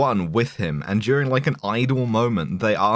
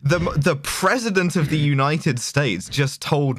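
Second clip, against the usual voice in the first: mock awe; 2 semitones higher than usual. Acting out the awestruck staffer.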